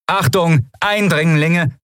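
high-pitched robotic warning, drawn out at the end; stiff, high automated alert; rasping machine alarm. A narrator's reading. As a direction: announce it like a security machine. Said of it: "schnarrte die Kugel".

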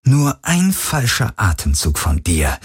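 slow, measured menace; menacing threat. Acted. Henchman with gun at hostage's temple, slow threat. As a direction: draw the threat out slowly.

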